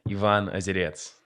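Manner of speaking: Ivan Osirets with a Russian accent, /əzɪdiəts/. Shown as a demonstration. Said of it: "if you wanna do it in a Russian accent".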